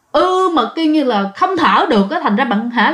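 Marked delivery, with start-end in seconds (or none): 0.1-0.5 short mock moan of someone unable to breathe; imitated choked moan. Smothered sleeper trying to call the sister beside them, imitated moan. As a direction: groan "ư" as if smothered. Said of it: "phát ra cái tiếng rên".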